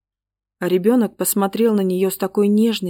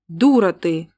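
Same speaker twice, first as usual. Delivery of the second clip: spiteful snap; 3 dB louder than usual. Acted. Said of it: "злобно ответила".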